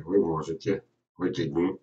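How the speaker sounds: ordinary talk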